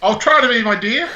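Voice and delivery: high, put-on girly voice; hammed-up girly reply. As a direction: pitch it right up, playfully girlish. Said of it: "the best girly voice I can do".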